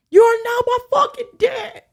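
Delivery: high, loud mock outburst; mock furious daughter. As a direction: shriek it at the newly found father. Retold daughter screaming at father.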